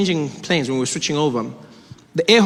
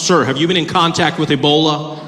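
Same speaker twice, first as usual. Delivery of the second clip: airport officer; 7 dB louder than usual. Acted. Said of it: "question they always ask was".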